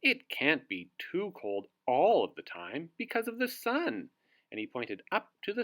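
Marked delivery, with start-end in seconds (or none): 0.0-4.1 wizard voice. Acted. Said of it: "snorted the wizard".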